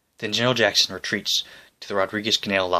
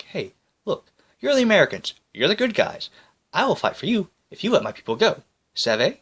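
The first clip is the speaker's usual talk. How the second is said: higher, eager pirate pleading; 9 semitones higher than usual. Acted. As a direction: sell the deal like a sly pirate.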